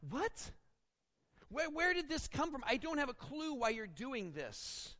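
high, puzzled "what, where did this come from"; baffled surprise. Retold or imitated. Preacher voicing a bewildered Peter at the vision, high and confused. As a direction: voice Peter caught off guard, pitch jumping up. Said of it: "Peter would be like".

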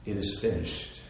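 low, hushed finality; understated dying declaration; solemn last words. Acted. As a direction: let it fall low and soft. Jesus' last words on cross.

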